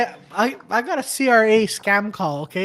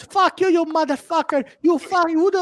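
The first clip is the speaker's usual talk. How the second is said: higher, hammed-up angry manager swearing; mock yell; 7 semitones higher than usual. Manager blasting the caller, mock angry cursing. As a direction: play the manager cursing him out. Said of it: "the manager comes and blasts me".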